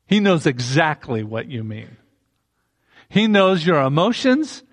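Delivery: ordinary delivery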